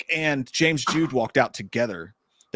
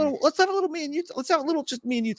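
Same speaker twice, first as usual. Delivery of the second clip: mock flirty invite; 12 semitones higher, faster than usual. Retold flirty invite on the walk.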